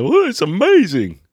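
high, breathy fake wonder; mock awe. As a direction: gush like a gawking shopper. Mocking gawking shoppers.

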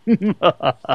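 mad scientist cackle; playful villain cackle; evil scientist laugh. Pretend. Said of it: "Let me do the evil scientist laugh".

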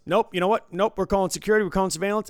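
a mock tantrum, high and loud; the angry player threatening to call security; imitating an angry gambler. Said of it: "He goes".

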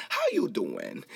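talk-show host's signature catchphrase; lightly imitated celebrity host greeting; Wendy Williams. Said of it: "a lot like Wendy Williams".

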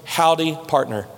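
lightly drawled West Texas howdy, low; a touch of West Texas twang on the greeting; low, easy West Texas cowboy greeting; West Texas accent. Shown as a demonstration. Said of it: "in the best West Texas slang accent you can come up with".

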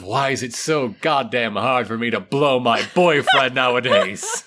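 muttered through a laugh. Acted. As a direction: grumble it while laughing. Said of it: "muttering something along the lines of".

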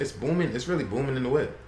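white guy voice. Shown as a demonstration. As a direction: play it as square and nerdy as possible. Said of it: "do your whitest voice and say".

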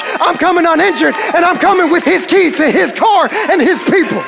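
starts easy, grows to a triumphant shout; Jesus building to a shout. Acted. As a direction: swagger building to the final victory cry. Jesus answers the disciples, building.

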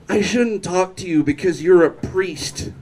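lightly voiced tipsy woman; drunk woman. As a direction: lightly imitate someone visibly drunk. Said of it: "So drunk that at one point she's like".

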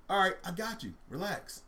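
acted easy reassurance; reassuring elephant. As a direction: soothe a panicking friend. Elephant reassures panicking mouse.

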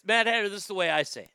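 loud and fast at first, then hammering it home; shouted declaration. Shown as a demonstration. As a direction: yell it out like a rally cry. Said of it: "Say it like this".

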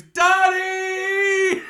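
high, drawn-out hammed-up scream; mock-anguished yell, held long; retold scream. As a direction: wail the name out at full pitch. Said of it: "And he screams".

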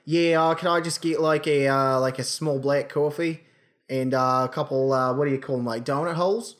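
casual Australian drive-through customer; put-on Australian accent. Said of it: "I'll put on an accent".

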